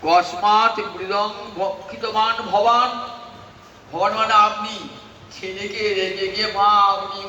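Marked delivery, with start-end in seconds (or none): 0.0-3.1 mild angry mother. Acted. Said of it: "মা রেগে রেগে জিজ্ঞাসা করছে".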